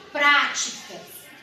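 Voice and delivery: práticas slowly, with a strong first syllable PRÁ; stress on PRÁ. Shown as a demonstration. Teacher introduces the third example, práticas, stressing PRÁ. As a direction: lean on the opening prá of práticas. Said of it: "o pra é a sílaba mais forte".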